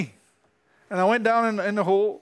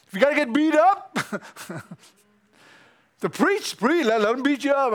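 fired-up exhortation; 6 semitones higher than usual. Real, not acted.

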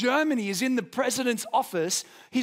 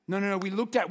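ordinary talk, nothing marked

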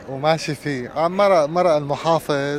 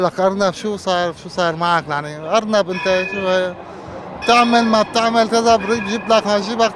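hyena blustering; 6 semitones higher than usual. Acted. Hyena yells at rabbit.

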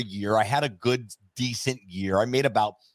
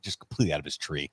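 quiet inner thought; 6 semitones lower, 6 dB quieter, faster than usual. Retold or imitated. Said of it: "And I'm like".

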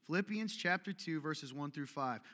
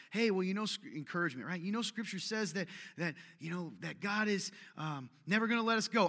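earnest encourager; 3 semitones higher than usual. Retold or imitated. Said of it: "You ever try to talk to a brother".

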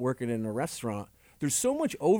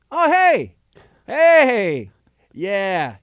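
high, loud, overly cheerful hello; friendly phone greeting; 5 semitones higher, 12 dB louder, much slower than usual. Retold or imitated. Retelling Dominic answering the mobster's call, loud cheerful greeting. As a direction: greet the caller like an old buddy. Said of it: "He goes".

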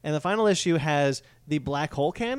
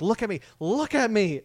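higher-pitched imitation of desperate yelling; raised-voice plea, half yelled; mock yelling; 7 semitones higher, 3 dB louder than usual. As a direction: act out yelling for a monster's attention. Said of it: "he's just yelling at Godzilla".

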